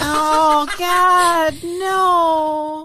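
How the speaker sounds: loud, high disgusted protest; disgusted outcry. Real, not acted. Disgusted protest at gross topic.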